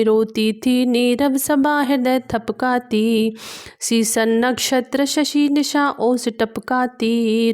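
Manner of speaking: measured recital of classical verse; poem recitation. A narrator's reading. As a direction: declaim each verse line with gravity. Recites verse between explanations. (गंभीर काव्य पाठ)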